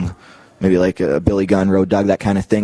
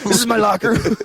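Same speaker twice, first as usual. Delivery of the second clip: much higher, goofy dim-witted voice; dumb Steiner voice; 12 semitones higher than usual. Retold or imitated. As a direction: play him as proudly clueless. Voicing Steiner's dumb insistence.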